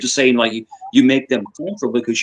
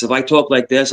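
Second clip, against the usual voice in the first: assertive fast talk. Shown as a demonstration. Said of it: "I talk very fast".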